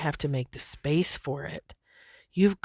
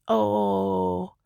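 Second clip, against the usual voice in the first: a light, higher, doting voice; sweet angels; 3 semitones higher than usual. Retold or imitated. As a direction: coo at a little one, higher. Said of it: "such a sweet".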